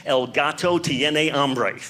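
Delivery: measured, careful classroom Spanish; slow school Spanish. Shown as a demonstration. Comic showing off the one Spanish sentence he knows, recited slowly.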